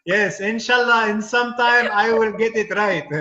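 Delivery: put-on comic Arab accent, grateful and polite; Arab accent character. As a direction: thank them warmly in a heavy Arab accent. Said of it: "I start doing the accent".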